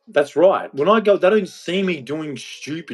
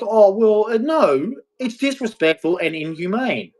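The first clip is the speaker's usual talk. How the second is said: mocking a woman; 9 semitones higher than usual. To women who call him violent, a high mocking protest. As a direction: mimic her primly objecting. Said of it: "And you're like".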